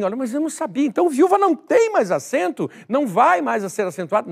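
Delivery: high-pitched mock surprise; imitated puzzled protest, pitched well up; puzzled student. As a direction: mimic a student caught off guard by a new rule. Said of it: "Puxa, você diz assim".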